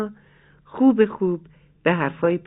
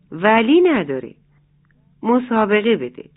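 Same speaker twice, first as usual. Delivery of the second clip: insisting; 3 semitones higher, 5 dB louder than usual. Acted. Kakol Hana insists firmly.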